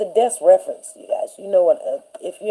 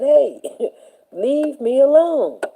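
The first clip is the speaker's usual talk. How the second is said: high, slow, laughing "leave me alone"; laughing plea; 7 semitones higher, slower than usual. Retold or imitated. Student laughing off a mocking teacher, amused plea. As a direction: brush her off with a laugh. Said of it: "I said".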